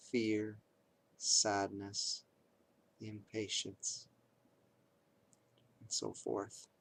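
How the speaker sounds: measured meditation guide with long pauses; guided meditation. Acted. Teacher guides listeners through noting reactions to pain, guided meditation.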